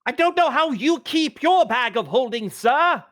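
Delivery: high, indignant protest. Acted. Player character arguing back about the bag of holding, indignant. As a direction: protest loudly up at the top of the voice.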